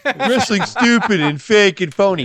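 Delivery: high, loud indignant outburst; worked-up rant. Real, not acted. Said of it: "you're getting really upset".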